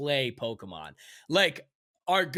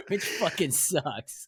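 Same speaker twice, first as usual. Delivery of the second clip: slow, through a laugh; laughing complaint; 3 semitones higher, slower than usual. Real, not acted. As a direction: chuckle ruefully through the words. Laughs at own lonely play.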